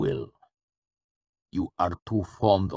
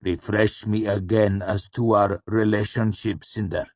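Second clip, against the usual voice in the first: louder patient command with a sliver of anger; patient, suppressed anger; 4 semitones higher, 4 dB louder than usual. A narrator's reading. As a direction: keep it controlled, anger just beneath. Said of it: "a deep sliver of anger running through his patient tone".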